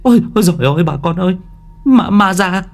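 high-pitched panicked shouting; screaming in alarm. Acted. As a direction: raise the alarm to the whole neighbourhood. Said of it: "cũng lại gào thét lên".

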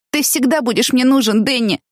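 a touch of sobbing as she clings to him; understated tearful cry to Danny; mild sob. Acted. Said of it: "всхлипнула Тина".

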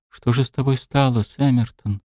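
bitter sad whisper. Acted. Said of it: "С горечью в голосе и грустью в глазах прошептала принцесса".

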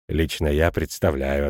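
slow, low-pitched, a touch pompous director; lightly voiced director. A narrator's reading. School director speaks.

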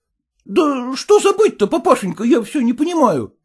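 high, tearful, pleading cry; whimpering son-in-law. Acted. Son-in-law begging his father-in-law, tearful whining. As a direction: whine like you might burst into tears.

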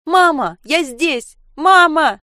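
loud, high, frantic yelling; girl yelling to her mother behind the door. Acted. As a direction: scream for mum through the door. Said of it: "Саша вопила".

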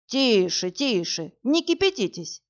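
lightly voiced policeman hushing her; policeman cutting in. A narrator's reading. Lightly voiced policeman interrupting an angry woman, hushing. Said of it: "перебил полицейский".

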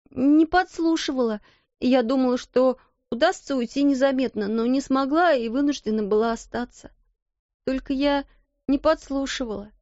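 put-on high, timid servant girl voice; frightened little maid. Maid explains to the headmistress, high and timid. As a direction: plead your way out, scared. Becky pleading.

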